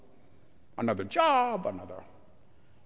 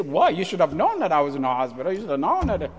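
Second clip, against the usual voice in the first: upset parishioners; 3 dB louder, faster than usual. Retold or imitated. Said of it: "get upset that I didn't visit them".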